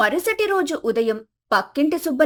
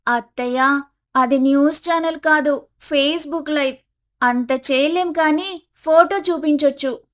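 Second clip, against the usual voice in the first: put-on higher young woman's voice, patient; daughter-in-law explaining live video to mother-in-law, higher voice; Komali explaining; 4 semitones higher than usual. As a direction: spell it out gently but pitched up.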